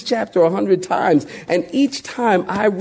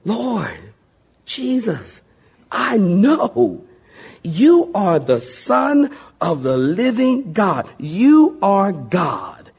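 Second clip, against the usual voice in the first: heartfelt confession; 2 semitones higher, much slower than usual. Acted. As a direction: breathe it out slowly and sincerely. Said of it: "He answered from the heart".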